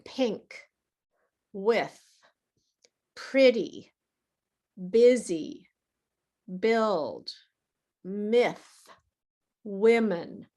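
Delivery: each word given alone with a short relaxed i; short i examples. Shown as a demonstration. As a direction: list the pink words one by one, short i. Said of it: "For example".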